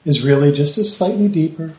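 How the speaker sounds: measured, smooth hypnotist delivery; hypnotic voice. Shown as a demonstration. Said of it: "this is my actual trance voice".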